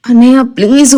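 lightly voiced plea while being choked; a touch of struggling breath on please; choked, gasping plea. A narrator's reading. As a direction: squeeze out the words with no air. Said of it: "ఊపిరి ఆడడం లేదు ... భారంగా ఊపిరి".

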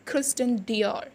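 Christian Dior as dee-OR, slow and careful; French pronunciation. Shown as a demonstration. Teacher modelling the brand name, slow French pronunciation. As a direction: spell out Christian Dior slowly, French style. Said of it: "it's Christian Dior".

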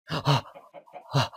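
sharp frightened shout; startled yelp. Real, not acted. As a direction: jump out of your skin. Startled by a mob in game.

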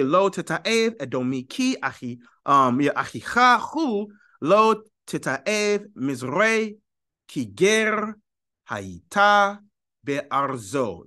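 careful recitation in Sephardic Hebrew pronunciation; Sephardic Hebrew reading. Shown as a demonstration. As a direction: read it out phrase by phrase in Sephardic Hebrew. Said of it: "dialect that I just read, the Sephardic Hebrew".

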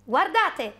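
story bear spotting something; excited bear. Acted. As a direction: call out eagerly to the others. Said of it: "tutto eccitato".

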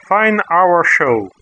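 "fine hour show" slowly in English sounds, echoing хорошо; English sound-alike. Shown as a demonstration. Teacher giving learners a memory aid, slow sound-alike. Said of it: "Like maybe a".

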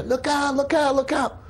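high-pitched cry, held back in volume; imitated warning cry. Bystanders warning as the tower falls, high urgent cry. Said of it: "all of a sudden we hear".

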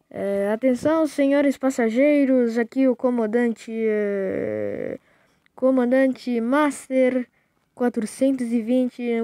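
pilot cabin announcement, slowish; airport announcement. Pretend. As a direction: address passengers like a captain. Plays captain addressing passengers.

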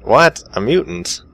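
high, startled questioning; startled disbelief. Real, not acted. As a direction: react in disbelief, voice jumping up. Player reacts to mutant in story.

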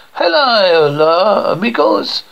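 drawn-out, sing-out hello; swooping, hammed-up hello to the gang; showy greeting. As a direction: make a big entrance with the greeting. Character makes a showy entrance.

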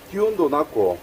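ordinary talk

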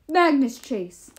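slow, loud giant's call; giant king's yell. A narrator's reading. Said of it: "the Giant King yelled".

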